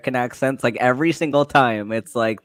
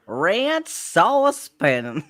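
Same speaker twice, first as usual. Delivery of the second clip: slow, drawn-out mock Southern redneck accent; imitating a redneck accent; 6 semitones higher, much slower than usual. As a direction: drawl ranch sauce pan like a mock redneck. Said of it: "Does she sound like a redneck?".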